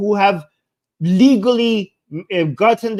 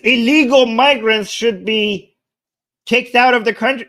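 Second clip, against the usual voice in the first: sarcastic. Pretend. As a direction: repeat it as if it were shocking. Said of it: "I'm being sarcastic".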